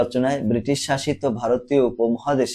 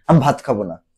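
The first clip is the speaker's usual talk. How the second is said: a touch louder, stubborn refusal; mock angry refusal; 3 dB louder than usual. Shown as a demonstration. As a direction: demo an angry child saying no, lightly. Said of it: "এরকম ভাবে রাগান্বিত ভাবে বলি". (রাগান্বিত ভাবে, হালকা অভিনয়)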